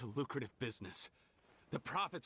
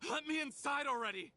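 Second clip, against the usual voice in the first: high, loud demand; impatient shout; 3 dB louder than usual. Acted. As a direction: snap at the guard to open up. Demanding entry, losing patience.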